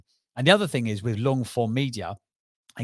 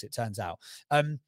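normal talking voice

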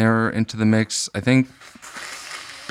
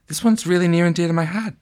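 movie star voice; 8 semitones higher, faster than usual. Pretend. Mock actor in dog movie.

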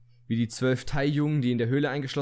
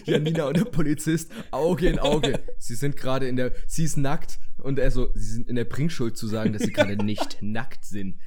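louder, dramatic storytelling; hyped-up scene setting; 6 dB louder than usual. Pretend. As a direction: build the scene like a trailer. Acting out the police scene.

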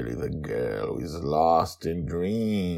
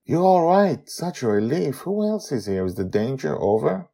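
higher voice, eager questions; Amali, relieved; 11 semitones higher, 5 dB louder than usual. Acted. Amali asking Joy if danger is over, higher relieved voice. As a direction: relief spilling out.

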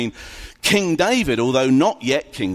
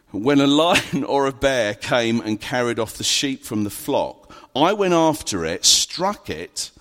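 scripture reading; 2 semitones lower than usual. Acted. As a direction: read the Bible passage with weight. Reads Bible passage aloud.

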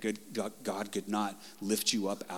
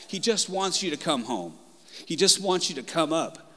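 higher, emotional plea, holding back tears; close to tears; 6 semitones higher than usual. Real, not acted. Preacher telling congregation God wants them home, close to tears. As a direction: plead while fighting the urge to cry. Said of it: "Sorry, I'm not gonna cry".

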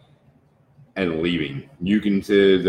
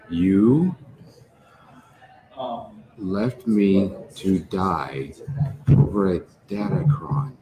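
tearful accusation. Acted. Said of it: "you can see tears running down her face".

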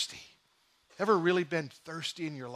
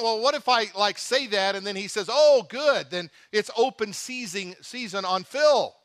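raised, louder, slowing on open season; worried new believer imagining trouble; young convert's alarm; 3 semitones higher, 5 dB louder than usual. Retold or imitated. New convert warns a friend, mock alarmed, slowing down. Retelling his own worried reply.

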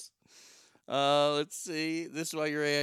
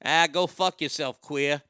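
a heavy Boston accent on "Ah, go fuck yourself", louder, r in "yourself" dropped; 3 dB louder than usual. Shown as a demonstration. Mocking how people talk in Boston, thick Boston accent. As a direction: toss it off like a true Bostonian. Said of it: "if you're truly in Boston".

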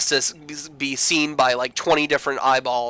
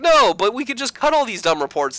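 much higher whiny defence; whiny protest; 9 semitones higher than usual. Retold or imitated. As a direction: whine it like a kid. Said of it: "he's like".

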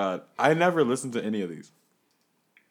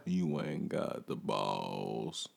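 bouncer; 7 dB quieter, much slower than usual. Acted. Bouncer skit, low slow.

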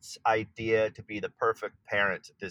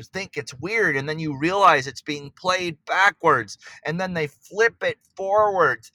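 real excitement; 4 semitones higher than usual. Real, not acted. Artist describing a beloved album to the interviewer, excited. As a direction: voice lifted in eager wonder, swinging on key words. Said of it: "tell by the excitement in my voice as I describe it".

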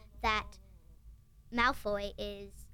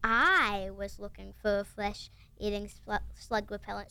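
slow, low growling Hagrid; 3 semitones lower than usual. Retold or imitated. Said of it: "She's doing her Hagrid growling impression".

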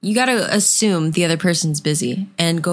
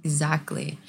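nodding off; 7 dB quieter than usual. Real, not acted. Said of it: "half asleep".

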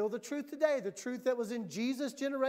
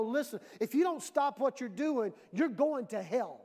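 in your face. Acted. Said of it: "get up in your face and go".

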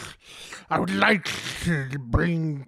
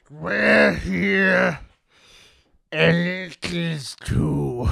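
grand poem recital. Pretend. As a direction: declaim each line like a great poem. Host recites his own poem.

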